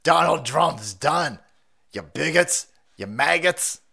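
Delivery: slow, drawn-out mock taunt; mock gloating. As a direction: sneer it slowly as a pretend opponent. Acts out media insulting supporters.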